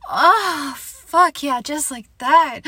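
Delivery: loud, high moan into words; passionate cry. Acted. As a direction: cry out in pleasure, pitch leaping up. Intimate scene between adult partners.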